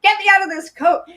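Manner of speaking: high, fast mock distress; frantic plea. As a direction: beg to be freed from a heavy coat. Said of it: "I'm going".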